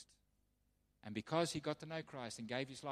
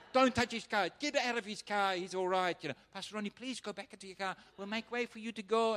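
louder, higher commands; ordering; 6 semitones higher, 6 dB louder than usual. Retold or imitated. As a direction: bark at the soldiers to back off. Colonel ordering soldiers off car.

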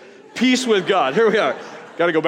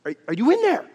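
higher, knocking-on-the-head voice; mock incredulous; 4 semitones higher, faster than usual. Looking into his son's eyes, mock incredulous. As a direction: ask as if nobody's home. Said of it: "look in his eyes like".

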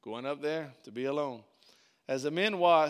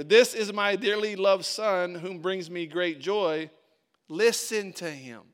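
loud, slow and solemn divine voice; God speaking from the cloud to Peter, booming and slow; 7 dB louder, slower than usual. Retold or imitated. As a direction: proclaim it slowly like God from the cloud. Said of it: "God said to Peter".

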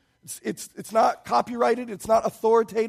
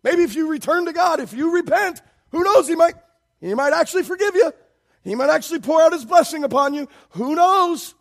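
high-pitched mock speculation; sarcastic; 4 semitones higher, 4 dB louder than usual. Shown as a demonstration. Preacher paraphrasing the prophet to the undeserving, high-pitched sarcasm. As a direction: dangle each possibility with exaggerated sarcasm. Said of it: "do you hear the sarcasm".

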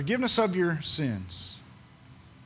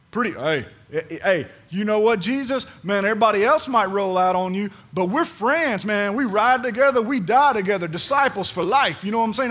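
louder, lightly voiced street-buddy swagger; a hint of a slangy buddy Peter; 3 semitones higher, 6 dB louder than usual. Preacher voicing Peter boasting to Jesus, mock slangy and louder. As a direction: brag like a loyal homeboy, half-playing it. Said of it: "That's what he said".

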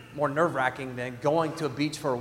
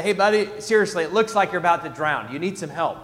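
urging; 6 dB louder than usual. Retold or imitated. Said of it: "And I say".

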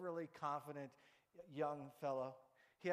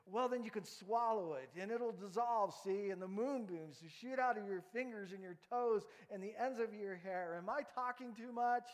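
eager George; 5 semitones higher, 5 dB louder than usual. Acted. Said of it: "he says".

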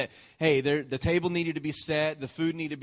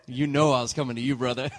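louder, chuckling through the words; laughing tease; 5 dB louder than usual. Real, not acted. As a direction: tease your brother with a laugh. Teasing a friend in the room.

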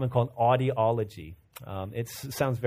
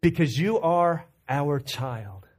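joyful tenderness; 4 semitones higher, 4 dB louder, slower than usual. Retold or imitated. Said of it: "look at her with just complete joy".

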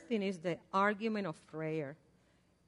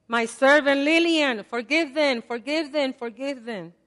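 gentle voice of God; 5 semitones higher, 7 dB louder than usual. Pretend. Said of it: "And the Father is saying".

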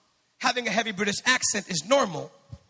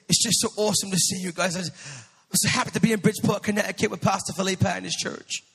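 lightly imitated British accent; lightly put-on British accent. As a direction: imitate a British pastor greeting the church. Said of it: "he has this great British accent".

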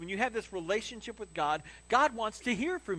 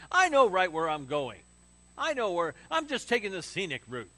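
mock stubborn guy; 6 dB louder than usual. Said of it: "What guy has ever said that".

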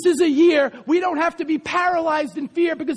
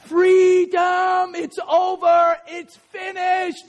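shouting preacher; 6 semitones higher, much slower than usual. Real, not acted. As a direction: proclaim victory at the top of your voice.

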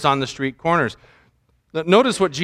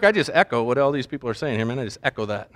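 mock prayer speak; 6 semitones lower, 6 dB quieter, faster than usual. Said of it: "I don't say to him".

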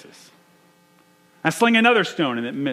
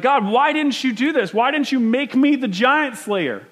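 complaining to God; 9 semitones higher, 4 dB louder than usual. Retold or imitated. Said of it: "you're like".

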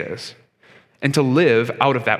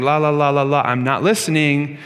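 put-on childish taunt. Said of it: "child putting his fingers in his ears".

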